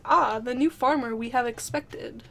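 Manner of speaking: lightly voiced calm captain; measured, soothing, attempted deep voice. Shown as a demonstration. Friend shows how to voice the poet, calm attempt at deep. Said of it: "like, a deep, calm, soothing voice".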